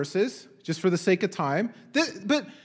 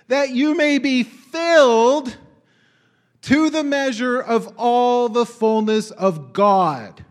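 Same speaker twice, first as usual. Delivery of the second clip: emphatic reading; 3 semitones higher, 6 dB louder, much slower than usual. Acted. Preacher reads verse emphatically.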